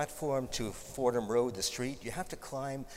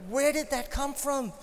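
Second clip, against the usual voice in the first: higher, louder, amazed question; surprised; 11 semitones higher, 9 dB louder than usual. Real, not acted. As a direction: react in disbelief. Reacting to surprising compliment.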